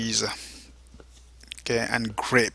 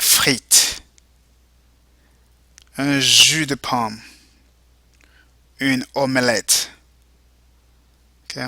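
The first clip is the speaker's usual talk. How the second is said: model vocabulary reading; slower than usual. Shown as a demonstration. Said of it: "go ahead and repeat".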